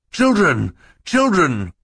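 high, loud anxious call; alarmed calling out. A narrator's reading. Banker at the reptile room door, high alarmed call.

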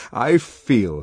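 put-on lively young man voice; voiced character, animated; Helmholtz voice.

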